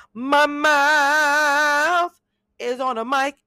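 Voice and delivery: high, loud, squealing repeat of the line. Shown as a demonstration.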